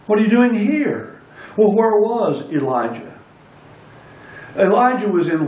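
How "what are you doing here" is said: higher-pitched question landing on "here"; stress on HERE. Shown as a demonstration. Preacher rewording the question for the congregation, stress on "here". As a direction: hit "here" at the end of the question. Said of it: "emphasis on the last word of the question".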